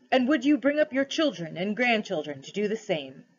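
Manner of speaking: solemn, measured questioning with mild authority; lightly voiced lion ruler, questioning. Aslan tests the cabby for kingship, lightly solemn. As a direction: test him gently but gravely.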